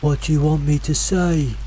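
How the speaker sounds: calling out. A narrator's reading. Mimic voice to hikers in fog, calling out. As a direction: echo a companion's question as a distant call. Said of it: "called out again".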